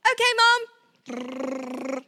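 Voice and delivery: put-on slow, drawn-out happy child; sweet obedient kid. Child answering mom, a mock eager okay. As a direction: play the perfectly obedient toddler.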